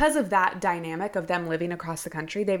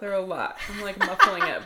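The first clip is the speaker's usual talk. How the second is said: laughing. Real, not acted. Laughing about sneezes.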